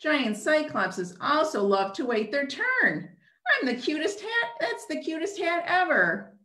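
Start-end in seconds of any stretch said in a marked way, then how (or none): 3.5-6.4 high, fast, giggly gush; gushing cyclops. Acted. Cyclops puppet squealing with a laugh over the cute hat.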